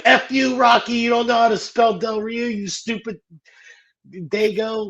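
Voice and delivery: high, loud mock insult; angry insult. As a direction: spit it out like a furious boss. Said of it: "he's like".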